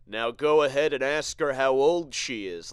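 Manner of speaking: loud, cocky taunting voice; mocking the dude. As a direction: egg him on, loud and smug. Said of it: "this dude at the table behind us is like".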